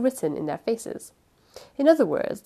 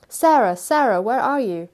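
raised, higher call for a missing person; calling out loudly; 4 semitones higher, 6 dB louder than usual. A narrator's reading. Uncle searching for his missing niece, calling out loudly. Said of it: "one voice called out loudly".

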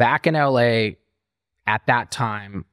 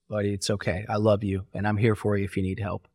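softer, tender friend's voice; gentle reassurance; 3 semitones lower, 6 dB quieter than usual. Retold or imitated. A retold friend gently reassures the addict, softer. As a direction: comfort him quietly.

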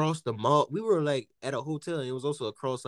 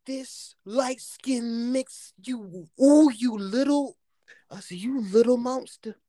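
pitched-up mock outrage at the nephew; high mock scolding; 7 semitones higher, 5 dB louder, slower than usual. Telling dad about the nephew, mock outraged and higher. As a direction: tease the little nephew in a raised voice.

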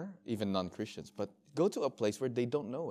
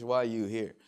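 limited English; 4 dB louder than usual. Retold or imitated. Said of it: "in his limited English".

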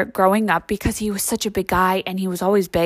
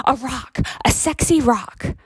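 sarcastic mock ad; 3 semitones higher, slower than usual. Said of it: "You're just like".

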